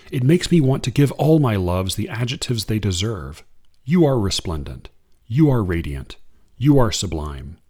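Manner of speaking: unhurried reading of verse; poem reading. Acted. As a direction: read it like a poem to an audience. Reads a Limon poem.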